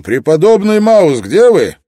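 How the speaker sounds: high, booming call to someone in a crowd; loud announcement. A narrator's reading. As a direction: call out for all to hear. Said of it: "и громко объявил".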